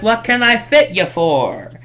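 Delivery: high, lilting customer greeting; cheery shopkeeper. Acted. Shopkeeper greeting a festival customer, high and cheery. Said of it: "she's very happy to see a customer".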